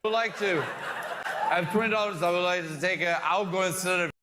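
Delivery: mock drunk woman's voice; put-on audience-member impression; imitating audience woman. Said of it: "This is such a good impression".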